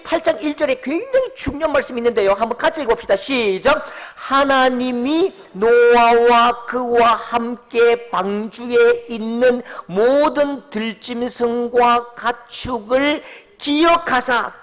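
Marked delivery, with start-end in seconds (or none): 4.1-14.6 slow, drawn-out unison reading; slow scripture reading. Acted. Pastor leading the church through Genesis, slow reading. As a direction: read each word slowly for the congregation. Congregation reads scripture together.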